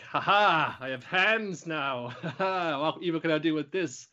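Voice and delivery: slow, gleeful villain with new hands; gloating villain. Retold or imitated. Evolved monster gloating at the magical girls, slow and gleeful. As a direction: ham up a monster delighting in its power. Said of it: "It's like".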